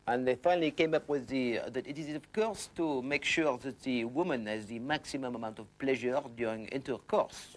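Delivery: lightly voiced French researcher accent. French researchers announce their survey result, mock French accent. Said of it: "the French came along and they decided".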